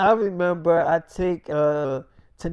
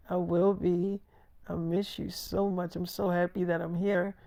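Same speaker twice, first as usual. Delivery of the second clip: tender reassurance; 8 dB quieter than usual. Acted. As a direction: quietly reassure your husband. Tanera reassuring her husband.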